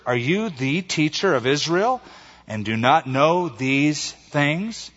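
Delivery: mildly sarcastic question, stretched at the end; a touch of sarcasm, slowing on "these things". Acted. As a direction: ask it with understated sarcasm. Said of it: "Can you hear the sarcasm in that?".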